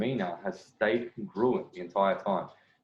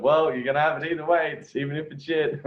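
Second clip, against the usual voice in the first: higher, louder cheeky imitation; mock retelling of his reply; 6 semitones higher, 4 dB louder than usual. Coach mimicking the man's blunt answer, higher and louder. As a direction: toss it off high like a teasing brush-off. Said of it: "she's like".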